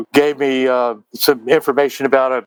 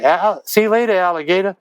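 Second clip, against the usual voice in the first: higher, sing-song parting line at the door; tossed-off goodbye; 6 semitones higher than usual. Retold or imitated. Songwriter acting his own farewell at the diner door, sing-song. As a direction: throw it over your shoulder on the way out. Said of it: "turned around and said".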